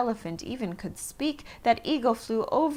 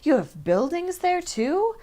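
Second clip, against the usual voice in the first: tag; 8 semitones higher, 5 dB louder than usual. A narrator's reading. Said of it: "Horton gasped".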